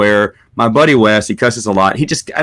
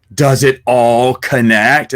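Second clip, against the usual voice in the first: dawning realisation; much slower than usual. Retold or imitated.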